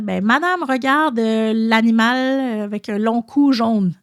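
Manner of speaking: a hint of a pupil groping for the word; lightly voiced child. Child at the zoo describes a giraffe to teacher, lightly voiced.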